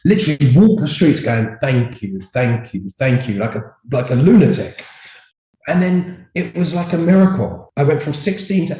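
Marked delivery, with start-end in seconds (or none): 1.6-3.4 "Thank you" with a careful, clearly formed TH; imitating his own pronunciation practice on the TH of "Thank"; practising TH sounds. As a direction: repeat "Thank you" as a diction drill, articulating each TH. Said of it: "how to pronounce my T Hs".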